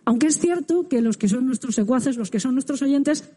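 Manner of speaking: muffled behind a face mask; speaking through mask. Real, not acted. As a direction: talk with a mask over mouth. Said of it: "tuvimos que hablar con la boca cubierta por la mascarilla".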